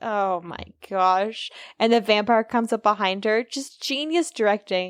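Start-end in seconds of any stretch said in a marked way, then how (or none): 0.0-1.5 mock bored, flat, level monotone delivery. Retelling a scene where Willow reacts, mimicking bored Willow. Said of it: "all bored".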